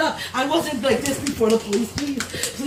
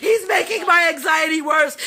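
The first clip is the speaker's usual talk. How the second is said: pleading cry; 4 dB louder than usual. Real, not acted. Upset woman pleading with police.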